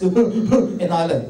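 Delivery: slow, deadpan and self-assured. Retold or imitated. The little brother answering slowly, dead sure of himself. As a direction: answer like it's obvious. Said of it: "antwortet er ganz selbstbewusst".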